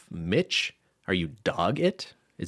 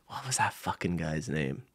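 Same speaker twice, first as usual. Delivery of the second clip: whispered aside; 5 semitones lower, 6 dB quieter than usual. Real, not acted. Muttered aside.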